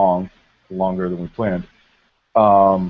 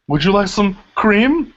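prim tea host; 9 semitones higher, 3 dB louder, slower than usual. Acted. Mocking Sheamus Tea Party.

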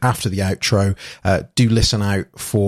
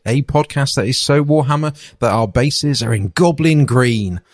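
podcast intro; 2 semitones higher, slower than usual. Acted.

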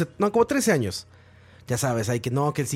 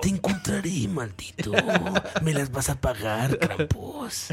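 silky menacing villain; 4 dB quieter, slower than usual. Retold or imitated. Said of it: "Así como novela mexicana".

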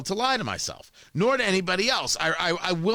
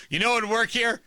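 mock eager speechwriter; 4 semitones higher than usual. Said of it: "I have not yet found the place like".

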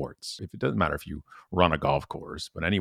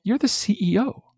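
exasperated retort; 14 semitones higher than usual. Retold or imitated. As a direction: call out the boss with disbelief. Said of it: "I'm like".

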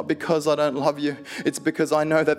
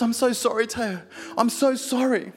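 voicing the nurse; 10 semitones higher, 3 dB louder than usual. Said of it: "She goes".

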